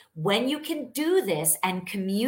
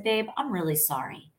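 better tone; faster than usual. Retold or imitated. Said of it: "I apologized with a better tone".

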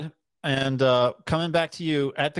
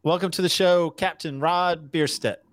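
announcer intro; 3 semitones higher than usual. Shown as a demonstration. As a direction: announce the guest like a host. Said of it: "not gonna do that whole intro".

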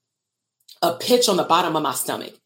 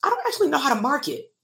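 imitating therapists. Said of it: "therapists realized".

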